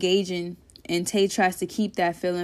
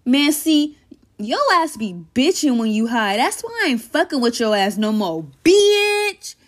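annoyed friend; 3 semitones higher, 4 dB louder than usual. Acted. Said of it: "Tay says".

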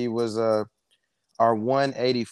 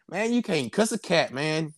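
playful catchphrase; 6 semitones higher than usual. Retold or imitated. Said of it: "I was".

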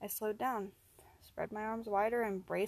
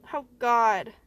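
loud, horrified outburst; anguished cry; 2 semitones higher, 12 dB louder than usual. Acted. Man forced to hurt his friend, loud anguished cry. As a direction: cry out in horror. Fighting against his will.

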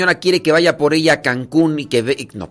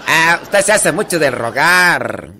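slow, drawn-out Tarimoro lilt; imitated Tarimoro village woman; Tarimoro accent; slower than usual. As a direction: mimic a pleading Tarimoro comadre, stretching the endings. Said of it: "la de Tarimoro se habla así".

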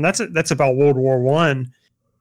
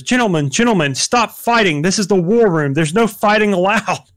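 hammed-up presidential call to order, higher and a bit louder; mock president scolding; 5 semitones higher, 3 dB louder than usual. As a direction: imitate a president breaking up a fight. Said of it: "and the president comes up and he goes".

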